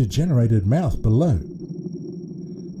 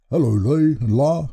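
warmly voiced grandfather greeting; kindly grandpa hello. A narrator's reading. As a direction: welcome the children fondly, in a grandpa voice. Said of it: "said Grandpa Tub warmly".

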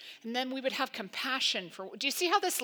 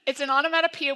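onomatopoeia said louder with glee, relishing the word; excited to say it; 4 semitones higher, 8 dB louder, faster than usual. Shown as a demonstration. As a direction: savor the word onomatopoeia out loud. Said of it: "I was excited I got to say it".

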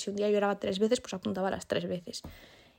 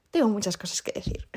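breathy conspiratorial whisper; hushed aside; 4 dB louder than usual. Real, not acted. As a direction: whisper it like a secret confession. Confessing she has much to say.

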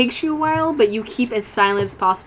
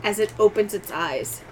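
game master's suspense narration; 6 dB quieter than usual. A narrator's reading. Game master revealing a monster to player, halting suspenseful narration. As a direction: draw out the eerie reveal piece by piece.

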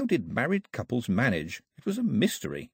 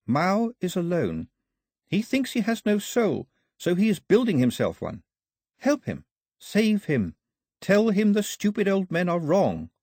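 pleading voice; 8 semitones higher than usual. A narrator's reading. Voice in the air pleads.

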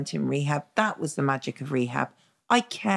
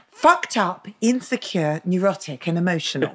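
blurted outburst. Retold or imitated. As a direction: burst out with it across the room. Girl across group bursts out.

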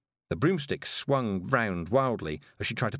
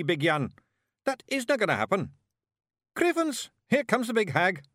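put-on high, rough Scots accent for the wee men; excited little Scottish brawlers hissing in the grass; squeaky Scots Feegles, worried then alarmed; Scottish pixie voices; 5 semitones higher, 3 dB louder than usual. A narrator's reading.

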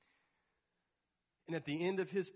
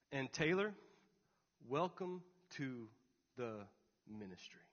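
choking up; 3 semitones lower, 4 dB quieter than usual. Real, not acted. Preacher recalls the prophet's words to him, choking up. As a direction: hold back tears, pausing between words. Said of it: "I'm gonna cry now".

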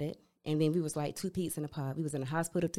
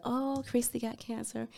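higher, softer, drawn-out sympathy; imitated pity; 6 semitones higher, 5 dB quieter than usual. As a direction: coo it slowly like a pitying friend. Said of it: "no sympathy".

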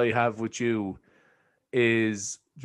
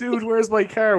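movie quote; 10 semitones higher, 4 dB louder than usual. Retold or imitated. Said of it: "photoshopped you into that".

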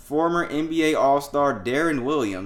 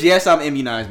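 louder, scornful repeat of the quote; mocking repeat; 4 semitones higher, 9 dB louder than usual. Mocking Aaron Rodgers' vaccine claim, louder and scornful. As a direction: throw his words back at him with scorn. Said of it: "What does".

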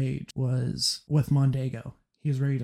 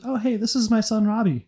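bright mother; 8 semitones higher than usual. Retold or imitated. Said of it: "she goes".

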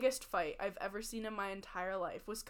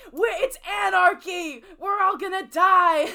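higher, louder hammed-up panic; mock panic; 7 semitones higher, 10 dB louder than usual. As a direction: play the panicking friend, over the top. Panicked friend in playground brawl.

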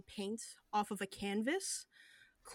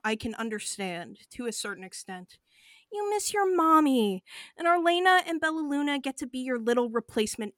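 mocking taunt; 3 semitones higher, 5 dB louder, faster than usual. Cobras taunts V.

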